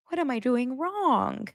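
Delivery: high, slow mock plea; helpless fiancé. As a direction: lightly imitate a small, helpless plea. Retold fiancé pleading, speaker pities him.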